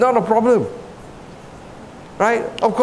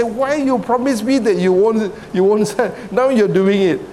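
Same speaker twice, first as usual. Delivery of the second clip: higher-pitched, mildly accusing question; retold reproach; 4 semitones higher than usual. Officer challenges newly promoted recruit who yells, retold reproach. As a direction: confront him over a broken promise, as retold.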